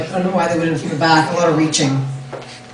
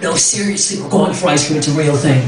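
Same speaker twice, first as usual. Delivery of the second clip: mock gruff mom; 5 semitones lower than usual. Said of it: "I'm mad and I'm not mad".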